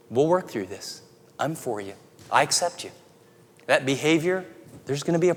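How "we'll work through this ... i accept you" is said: soft, low, gentle reassurance; tender reassurance. Pretend. Parent reassuring a child who failed, softly and tenderly. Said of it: "They need to hear".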